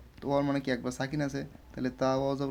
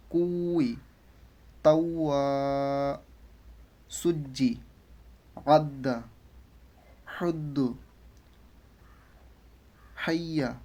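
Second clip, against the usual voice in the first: measured Arabic syllable drill, word by word; teacher reading out a pronunciation list; recitation drill; slower than usual. Shown as a demonstration. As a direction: recite each form separately with firm doubled consonants.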